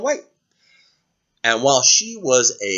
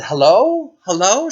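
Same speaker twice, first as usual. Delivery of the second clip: calling hello; 6 semitones higher, 5 dB louder than usual. Acted. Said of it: "I said".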